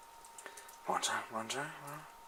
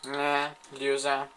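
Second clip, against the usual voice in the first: taunt; 4 semitones higher, 4 dB louder, slower than usual. Real, not acted. Taunting a beaten opponent.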